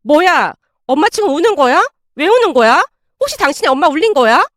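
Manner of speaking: startled. Acted. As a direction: fire off surprised questions, quickening into accusation. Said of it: "아내가 놀라서 물었습니다".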